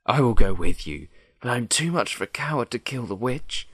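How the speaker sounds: a hint of a bold lion. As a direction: say it loudly as the lion. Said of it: "said the Lion".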